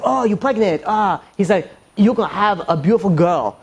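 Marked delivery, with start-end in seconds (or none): 0.0-1.2 imitated Asian street artist accent. Caricaturist selling to a couple in Manhattan, Asian accent. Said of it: "one of those Asian people". 2.0-3.6 predict it in a put-on Asian accent. Caricaturist predicting to a pregnant couple, Asian accent. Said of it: "one of those Asian people".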